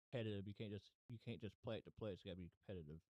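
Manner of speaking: whistling s from dentures. Real, not acted. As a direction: let the s sounds whistle through loose dentures. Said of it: "Sorry about the whistling".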